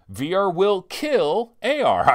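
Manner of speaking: loud, high, slow mock proclamation; over-the-top slow announcement; hammed-up proclamation. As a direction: declare it big, word by word. Hams up developer's puzzling name.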